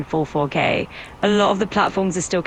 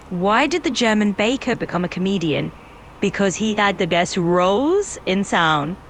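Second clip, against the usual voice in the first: put-on German accent. Assistant tells the user a joke in a mild German accent. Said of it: "give you a bit of a German accent".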